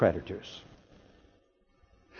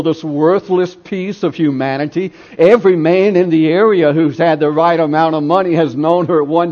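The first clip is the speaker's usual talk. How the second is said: mock jeering yell; 2 semitones higher, 4 dB louder than usual. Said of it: "as he yells".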